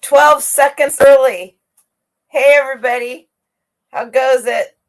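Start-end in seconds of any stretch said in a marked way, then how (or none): 0.0-3.3 loud, high burst to kick off the live; a big happy opening yell; excited shout. Real, not acted. Host kicking off the live stream to viewers, a loud excited shout.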